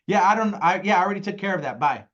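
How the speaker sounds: a frazzled parent getting rid of a caller; hurried mom on the phone with screaming kids; harried parent brushing off. Retold or imitated. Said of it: "I pick up the phone and I'm like".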